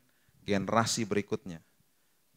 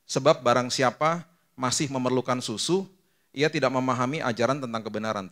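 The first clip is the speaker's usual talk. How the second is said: scripture reading; 5 dB louder than usual. Acted.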